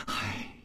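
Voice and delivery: a soft, barely audible sigh. A narrator's reading. Xiong Niangzi sighing before speaking of his son. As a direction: breathe out a tired sigh. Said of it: "又叹了一口气说".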